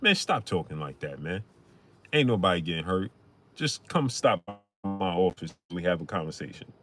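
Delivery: low and soft, easing the tension; imitating a music mogul. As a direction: the mogul smoothing it over on the radio. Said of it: "he called in".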